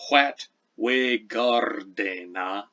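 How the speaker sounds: What we gardena, slow, with trilled R and continental vowels; drawn-out gardena with a trilled R; Old English recitation. Shown as a demonstration. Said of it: "so here's how it sounds".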